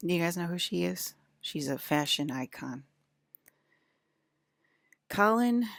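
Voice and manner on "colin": high, loud call of a name. Real, not acted. Calling to someone off camera, loud call. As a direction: call across the room to get attention.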